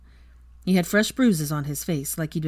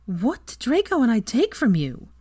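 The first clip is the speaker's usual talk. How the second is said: slight waver; 7 semitones higher, 4 dB louder than usual. Acted. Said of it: "with a slight waver in her voice".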